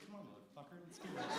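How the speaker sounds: mock fight call. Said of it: "I was like".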